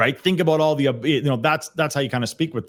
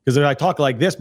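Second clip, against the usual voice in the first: regular forceful self; 2 semitones higher than usual. Shown as a demonstration. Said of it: "my regular self".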